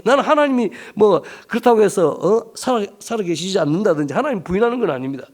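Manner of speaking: defiant complaint. Retold or imitated. Preacher retelling a pastor's complaint to God, defiant and pleading. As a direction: argue back, pushing harder as it goes. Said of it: "하나님 앞에 막 대들면서 푸념을 막 넣으면서 엉엉".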